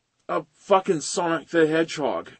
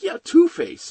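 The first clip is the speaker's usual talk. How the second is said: much higher, louder cheer; excited recognition; 5 dB louder than usual. Retold or imitated. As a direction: shout it like a thrilled fan.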